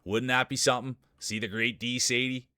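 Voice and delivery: lively play-by-play calling the field; race announcer. Acted. Streamer calls the marble race field, announcer style. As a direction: call the race like a sportscaster.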